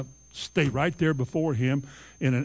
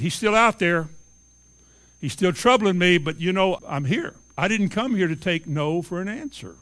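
insistent widow, raised voice on her demands; pleading widow; 3 dB louder than usual. Acted. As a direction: plead stubbornly to the judge.

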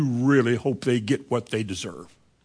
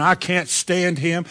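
bitter scorn; 2 semitones higher, slower than usual. Acted. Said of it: "When we talk like that, there's bitterness in us".

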